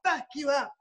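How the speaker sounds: high, loud mock shouting; shouted threat from the ringside crew; retold shout. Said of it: "And he's shouting".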